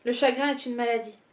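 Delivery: measured, composed poem recitation with short pauses between lines; poetry reading. Acted. Reader sharing favourite love poems with online followers, composed poetry reading.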